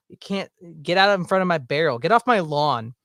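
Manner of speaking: lightly voiced grumpy grouch; mock-grumpy telling-off; get-off-my-lawn dude. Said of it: "the first "get off my lawn" dude".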